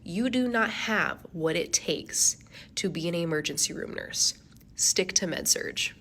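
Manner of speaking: slow, dismissive put-down; a slow, icy teacher's verdict; cold professor. Retold or imitated. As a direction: look down on her, word by word. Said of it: "She looks at me and goes".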